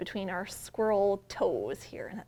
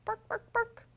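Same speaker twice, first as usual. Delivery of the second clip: much higher small barks; little dog barking; 11 semitones higher than usual. Shown as a demonstration. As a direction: yap like a tiny terrier. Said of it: "some dogs like this bark a lot".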